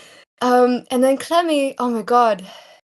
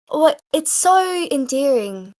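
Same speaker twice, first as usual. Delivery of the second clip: higher, drawn-out character voice; slow, pitched-up cooing impression; Clemmy; 4 semitones higher than usual. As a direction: stretch it out endearingly. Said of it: "I can't get exactly it for Clemmy".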